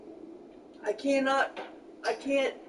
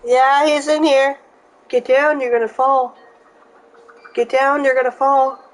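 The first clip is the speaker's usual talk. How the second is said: yelling across the room; 11 dB louder than usual. Real, not acted. Mom calling out warnings.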